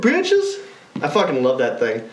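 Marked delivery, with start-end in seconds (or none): 0.0-0.6 very high, drawn-out yeah, bitches; triumphant gloat. Retold or imitated. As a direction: stretch it out, gloating. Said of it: "I was like".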